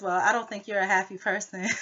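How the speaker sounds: retold line said with a laugh breaking in; laughing through the quote. Vlogger laughing as she retells the housemate's jab. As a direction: laugh while quoting her. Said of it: "And then she says".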